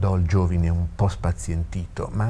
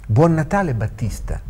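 raised, festive goodbye; cheerful farewell; 7 semitones higher than usual. Acted. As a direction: call out your good wishes in parting. Calling Christmas wishes on parting.

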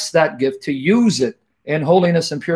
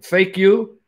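mock talk to fake self; 3 semitones higher than usual. Mock-addressing his fake self.

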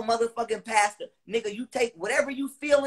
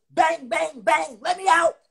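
mock yell; 4 semitones higher, 6 dB louder, slower than usual. Reliving banging on cell door.

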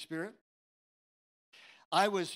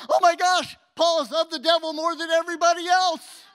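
much higher and louder, laughing shout; mock outrage; 9 semitones higher, 14 dB louder than usual. Preacher mocking his old church's view of Paul, shouting with laughter. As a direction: gasp in fake horror, cracking up.

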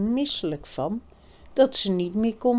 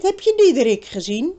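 higher, louder impatient demand; girl's voice, impatient; 4 semitones higher, 7 dB louder, faster than usual. A narrator's reading. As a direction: push him to spill it. Birgit demands.

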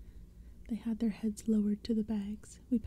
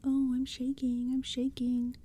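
higher-pitched mock fear; teasing; 3 semitones higher, slower than usual. A narrator's reading. Boy making fun of the pumpkinheads, teasing in mock fear. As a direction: tease with a pretend fright. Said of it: "Lee teased".

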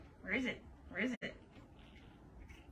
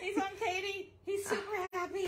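laughing; 9 semitones higher than usual. Real, not acted. Laughing while cat climbs.

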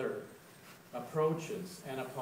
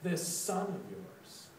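slow, higher-pitched jab of an insult; 4 semitones higher, slower than usual. Acted. Elder brother disowning his brother to their father, insulting. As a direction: draw the words out slowly as an accusation. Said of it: "the elder brother insults him".

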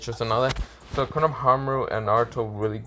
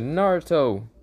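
mild mock squeal, pitched up; mock fangirl cry; 5 semitones higher than usual. Fangirl calling her crush instead, mild imitated scream. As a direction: call the name like a swooning fangirl, half-hearted. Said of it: "just jumps and screams".

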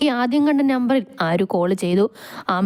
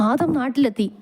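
higher, breathless report; panting; 4 semitones higher than usual. Acted. Servant tells boss who is back in town, panting. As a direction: get the news out while winded. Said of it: "നീ എന്തിനാ ഇങ്ങനെ കിതയ്ക്കുന്നത്".

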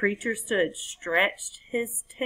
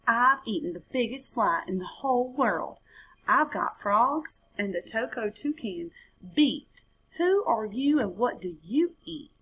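lightly higher little frog brag; boasting frog; 3 semitones higher than usual. Acted.

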